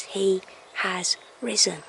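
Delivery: soft, breathy awed whisper; reverent whisper. Real, not acted. Telling viewers the Easter message, awed reverent whisper. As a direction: breathe it out in awe.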